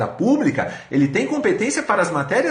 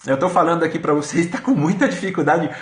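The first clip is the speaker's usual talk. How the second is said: talking through sore lips from braces; speaking carefully, braces rubbing lips; braces hurting lips. Real, not acted. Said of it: "o aparelho tá machucando muito meu, meus lábios".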